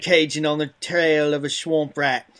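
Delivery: put-on Cajun accent that comes out Australian; loud Australian-sounding stab at Cajun; botched Cajun accent. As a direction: attempt a Cajun, land on Crocodile Dundee. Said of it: "but you're Australian? I can't do a Cajun accent".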